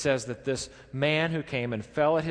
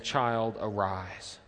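gentle command; 4 semitones lower, much slower than usual. Retold or imitated. Jesus calls to the dead child, gentle and low.

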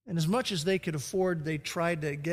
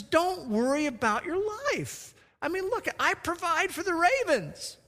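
raised, gentle voice of Jesus; voicing Jesus; 11 semitones higher than usual. Preacher voices Jesus reassuring the disciples, high and gentle. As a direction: speak it high and kindly, as Jesus comforting. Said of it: "He says".

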